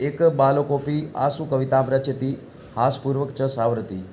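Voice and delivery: measured chanting of a shloka, each phrase set apart; Sanskrit verse recitation. Acted. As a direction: recite the verse like a teacher reading scripture. Recites Sanskrit verse before translating.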